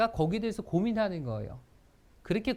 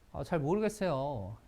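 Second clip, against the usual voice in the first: low, slow, careless reply; bored shrug; 5 semitones lower than usual. Shown as a demonstration. Teacher shows an annoyed newcomer, indifferent. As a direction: brush it off lazily. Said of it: "이런 거랑".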